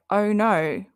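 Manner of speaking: "Oh no" as an Australian would say R and R; light Aussie drawl on "Oh no"; Aussie accent. Shown as a demonstration. Showing chat how Aussies say R and R, in accent. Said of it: "with your lovely accent".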